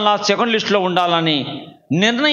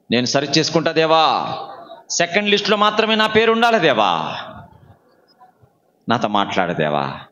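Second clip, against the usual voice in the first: led prayer; 2 semitones lower than usual. Real, not acted. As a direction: call out to God, stretching each line's end. Leads the congregation in prayer. (దేవునికి వేడుకుంటూ సాగదీసిన ప్రార్థన)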